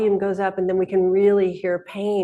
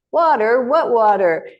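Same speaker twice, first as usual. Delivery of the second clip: puzzled fish; 4 semitones higher, 4 dB louder than usual. Retold or imitated. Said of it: "And the two fish say".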